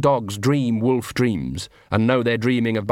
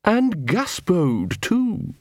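high, slow, deliberate villain dog; menacing poodle leader, suspicious; 7 semitones higher, much slower than usual. A narrator's reading. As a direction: sneer out the accusation in a high poodle voice. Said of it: "said the poodle".

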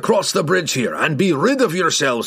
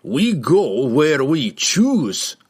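very slow, higher dwarf snarl; defiant snarl; 4 semitones higher, 3 dB louder, much slower than usual. A narrator's reading. Dwarf defies the rider's order, snarling. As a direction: snarl it slowly, word by word. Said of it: "snarled Bruenor".

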